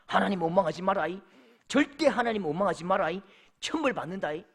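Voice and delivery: lightly voiced warning from a pastor; admonishing pastor. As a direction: warn the flock with drawn sentence endings. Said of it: "다른 어떤 목사님께". (훈계하는 목사님 말투를 살짝 흉내)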